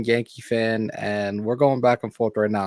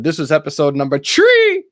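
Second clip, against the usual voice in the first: put-on Jamaican accent; 4 semitones higher, 6 dB louder than usual. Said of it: "horrible Jamaican accent".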